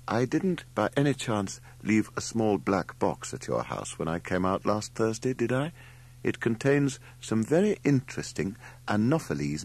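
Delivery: a hint of a fussy scholar reading his note; lightly voiced letter. Theodore writing to Mrs Durrell, a lightly voiced prim note. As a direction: read it primly, lightly in character.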